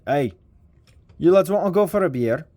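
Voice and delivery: muddled attempt at a Scottish accent; quick, matey line in a botched Scottish accent; failed Scottish accent. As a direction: try Scottish and miss it. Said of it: "I don't know what bloody accent that was".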